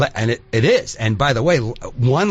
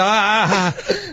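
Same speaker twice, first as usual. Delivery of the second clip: flustered stammer; 7 semitones higher, much slower than usual. Retold or imitated. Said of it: "And I go".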